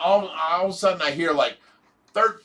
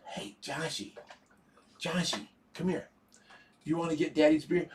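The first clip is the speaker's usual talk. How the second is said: put-on soft, hushed coaxing of a little kid; coaxing a toddler; 11 dB quieter than usual. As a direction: quietly call a small child over, much softer. Quoting friend coaxing little kid.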